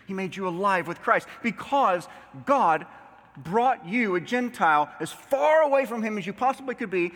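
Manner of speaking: rhythmic pulpit list, hitting each "because"; punched key words, preacher cadence; emphatic preaching. Acted. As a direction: preach each reason with building conviction. Preacher building list of reasons.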